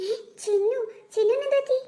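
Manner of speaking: a sob breaks into the name; crying out. Acted. Boy cries over his fainted friend. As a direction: cry her name in shock and grief. Friend finds Chinnu collapsed.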